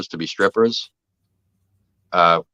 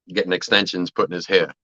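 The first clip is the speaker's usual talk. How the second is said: normal talking voice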